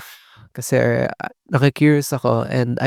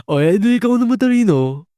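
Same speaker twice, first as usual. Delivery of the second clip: high, fast sarcastic sneer; mock-impressed sarcasm pitched way up; mocking comeback; 9 semitones higher, faster than usual. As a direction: toss it off like a sore loser's jab. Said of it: "ang pang-comeback na lang na ibibigay is".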